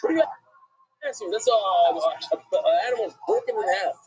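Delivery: mock-incredulous retort; imitated reaction. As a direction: act out a rabbi taken aback by the question. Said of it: "He said it like".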